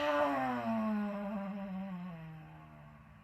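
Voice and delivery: lion's breath exhale. Shown as a demonstration. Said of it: "lion's breath".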